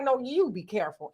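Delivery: quiet firm retort; sassy comeback. Retold or imitated. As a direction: turn it right back on her. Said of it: "And I was like".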